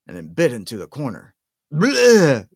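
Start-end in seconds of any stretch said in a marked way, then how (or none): 1.7-2.5 loud, high spit-out bleh of disgust. A narrator's reading. Ron biting a sprout-flavoured bean, loud disgusted bleh. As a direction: recoil from a foul taste.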